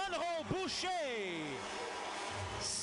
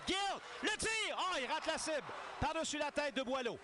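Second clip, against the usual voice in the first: excited sports commentary; 2 semitones higher than usual. Real, not acted. Shot call.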